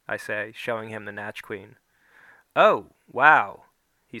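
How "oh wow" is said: surprised. Acted. Doctor reacts to picture.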